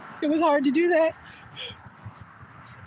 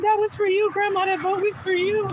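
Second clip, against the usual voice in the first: tender dedication; 5 semitones higher than usual. Retold or imitated. Dedicating her vote to grandma.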